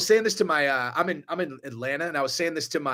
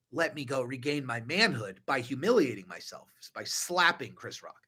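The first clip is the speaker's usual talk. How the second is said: mock solemn Will; 4 semitones lower, 6 dB quieter than usual. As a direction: say it gravely, like swearing to restore your pride. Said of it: "Will's all".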